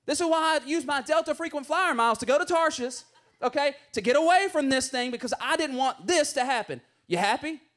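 exasperated complaint. Retold or imitated. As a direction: vent at God like you were right all along. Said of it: "And Jonah's like".

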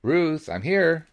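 loud, high and slow call; stretched-out loud call. A narrator's reading. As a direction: call to let her know you arrived. Calling out in the shop.

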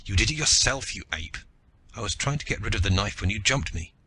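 mildly angry retort; angrily defending. Acted. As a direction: snap back in defence. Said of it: "Then angrily defending himself".

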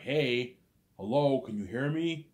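loud, high call to the cops. Retold or imitated. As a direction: make the silent cops answer. Shouting at silent cops.

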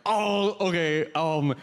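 put-on apologetic foreign coworker accent; Hannah. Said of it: "Hannah could show up late".

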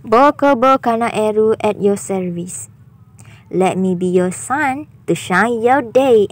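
light cutesy VTuber idol greeting, slowing on the second line; Kobo Kanaeru impression. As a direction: play a perky anime streamer saying hi. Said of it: "yang tu saja je nak testing". (tiruan suara comel Kobo Kanaeru, perlahan sedikit)

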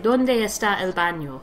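Donde está el baño with rounder Spanish vowels, not Americanized; a light try at real Spanish sounds for Donde está el baño; lightly Spanish accent. Shown as a demonstration. Contrasting the classmate, a touch of Spanish accent. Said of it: "You're not like".

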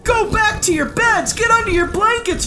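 high-pitched warning call; urgent crying out. Acted. Boy warns frightened lords and ladies in the halls, urgent cry. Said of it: "went crying through the halls".

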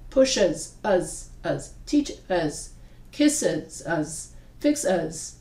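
"us" split off and said low and slow; uz ending drill. Shown as a demonstration. Teacher breaks words into parts slowly. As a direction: break "kisses" into "kiss" plus "us". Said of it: "here it's uz".

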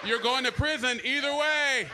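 slow, loud emphatic warning to the crowd. Real, not acted. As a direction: hammer home the consequence, slow and loud.

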